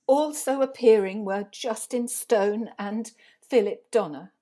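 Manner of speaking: careful, slightly firmer read-out; halting, dutiful announcement; nervously speaking up. Acted. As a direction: project reluctantly, reading under pressure. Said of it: "They can't hear you at the back".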